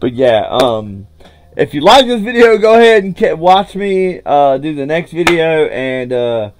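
upbeat sign-off to viewers; YouTube outro. Acted. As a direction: wrap up the video for your audience.

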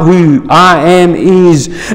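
slow, weight landing on I; who I am is, slowly, with the I leaned on; stress on I. Shown as a demonstration. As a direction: press hard on the word I. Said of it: "But I put an emphasis".

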